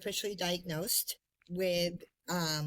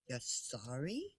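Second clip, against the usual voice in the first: incredulous retort; 8 semitones lower, 9 dB quieter, slower than usual. Retold or imitated. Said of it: "I let her have it".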